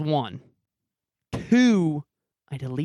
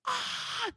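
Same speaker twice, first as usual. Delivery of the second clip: mock scream; 11 dB quieter than usual. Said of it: "scream, bro, like, blood curdling, like a voice actor".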